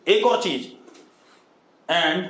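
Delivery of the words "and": slow dictation. Shown as a demonstration. Teacher dictating for notes.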